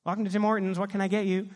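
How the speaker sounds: lightly voiced drive-through greeter; drive-through worker. Worker greeting the next car at Tim Hortons, lightly voiced drive-through worker. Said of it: "I'm in a drive-through at Tim Hortons".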